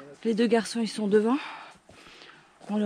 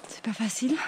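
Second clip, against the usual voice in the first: whispering; 5 dB quieter than usual. Real, not acted. Whispered aside while climbing.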